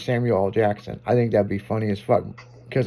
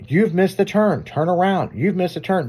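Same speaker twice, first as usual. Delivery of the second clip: raised, higher-pitched mock scolding; mock screaming GPS; 6 semitones higher than usual. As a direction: imitate a nagging satnav, pitched up. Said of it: "It sounded like it's fucking screaming at me".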